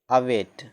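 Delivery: अवेट said with a short a, a-weit; teacher's model word. Shown as a demonstration. Teacher models अवेट for students, short a. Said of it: "शुरू में है ना ए".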